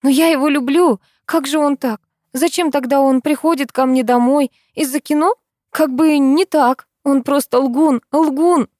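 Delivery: high, loud, tearful outburst; hurt raging rant. A narrator's reading. Heartbroken girl raging at her friend, loud angry rant. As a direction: rage against the liar.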